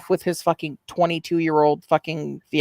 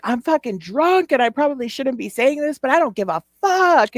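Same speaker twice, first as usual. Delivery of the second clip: imitating a drunk streamer, high and yelling; mock the drunk rant in a high yell; drunk high-pitched yelling; 6 semitones higher than usual. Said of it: "that high-pitched yelling".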